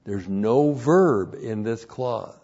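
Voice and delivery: slow, with "verb" pressed down hard and falling; stress on verb. Shown as a demonstration. Preacher stressing the missing verb to his congregation, slow and weighty. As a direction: lean into "verb" and let it drop. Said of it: "it's very important to note".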